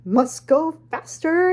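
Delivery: slow, urgent film-line impression; mock panicked movie hero; Jurassic Park impression. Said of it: "doing impressions from, you know, Jurassic Park".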